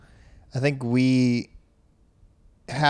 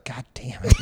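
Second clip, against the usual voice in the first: mock angry shout. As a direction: snap "God damn it." like a fed-up parent. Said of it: "you got mad that he said it".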